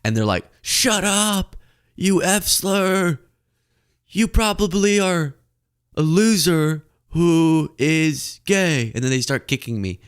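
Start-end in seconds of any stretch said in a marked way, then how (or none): 0.6-8.9 mock angry maga. Maga gang insulting narrator.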